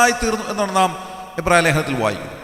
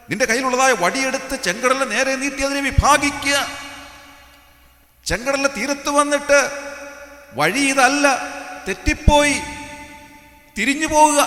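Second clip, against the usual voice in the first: higher-pitched pulpit declamation; declaiming preaching; 4 semitones higher than usual. Acted. Preacher quoting God's command at the Red Sea, raised declamation.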